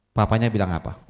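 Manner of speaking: ordinary talk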